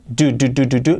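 "Do, do, do" with a hard D, almost a T; drilling the hard D of do; repeated strong D. Shown as a demonstration. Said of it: "Al empezar es una D que casi es una T de fuerte".

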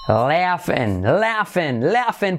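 "laughing" as "LEA-fen", GH as F; correct LEAF-en sound. Shown as a demonstration. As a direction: stretch "laughing" into "leafen", with E in the ending. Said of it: "Luego la I como una E". ("laughing" pronunciado "léafen")

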